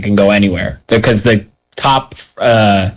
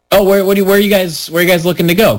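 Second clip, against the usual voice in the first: higher-pitched, eager-to-help retold question; imitating helpful worker; 7 semitones higher, faster than usual. Patient worker asking lost tourists, higher imitated helpful voice. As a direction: play a patient worker offering directions. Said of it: "Clearly trying to help".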